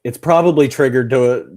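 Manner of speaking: playing the piano, she reasons about Bach, mock nervous; mock worried character. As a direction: act out her nervous logic loudly. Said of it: "She's like".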